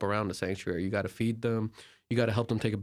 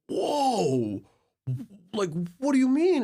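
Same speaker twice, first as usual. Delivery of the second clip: retold shock; 9 semitones higher, 3 dB louder, much slower than usual. Retelling shock at the stranger's words.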